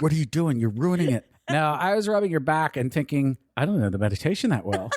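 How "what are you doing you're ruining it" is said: re-enacted, put-on whisper. Retelling whispering to their partner during a meditation, retelling a whisper. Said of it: "And I'm whispering".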